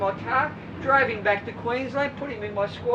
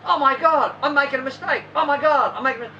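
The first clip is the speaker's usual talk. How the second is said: louder, flustered worried swimmer; mock panic; 2 semitones higher, 5 dB louder than usual. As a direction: gasp it like a swimmer who thinks he's failing.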